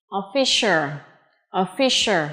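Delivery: "official" with a clear sh in the middle; sh sound. Shown as a demonstration. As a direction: carefully model "official", hushing sh before the ending. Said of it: "Âm sh".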